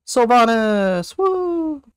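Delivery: high, slow cheer of the boss name; excited cheer. Real, not acted. Streamer cheering to the group, excited. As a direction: call it out like a win.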